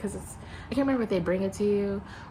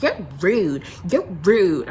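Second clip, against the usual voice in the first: loud imitation of an offended customer; punchy mock outrage; mock accusation; 9 dB louder, slower than usual. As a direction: fling it out loudly, mimicking a complainer. Imitates a complaining lady, loudly.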